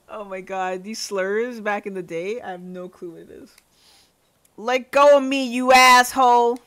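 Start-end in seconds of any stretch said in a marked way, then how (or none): 4.6-6.6 loud, higher-pitched outraged yell; angry shout. Acted. Character grabbed during a quarrel, yelling angrily. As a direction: shout it like you're being grabbed.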